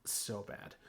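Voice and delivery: hushed, breathy whisper. Real, not acted. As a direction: whisper in mock horror. Whispered agreement.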